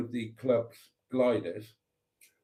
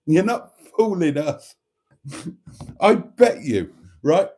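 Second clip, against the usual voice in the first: louder, incredulous teasing; mock outrage; 6 dB louder than usual. Real, not acted. Vlogger teases a friend's cold cottage claim, loud and incredulous. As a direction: call out his bluff with a laugh in the voice.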